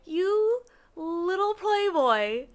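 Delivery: high, loud and drawn out; loud singsong tease; teasing scolding. Real, not acted. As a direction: stretch it out in playful mock accusation. Teasing the flirtatious game character.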